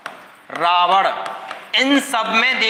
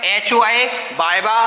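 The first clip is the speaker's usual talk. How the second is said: slow recited formula; slower than usual. Shown as a demonstration. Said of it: "सूत्र क्या होता है".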